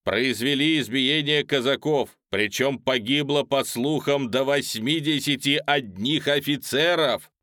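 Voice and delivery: loud, fired-up orator; animated. A narrator's reading. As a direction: rouse the crowd with spirit. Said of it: "одушевлённо говорил оратор".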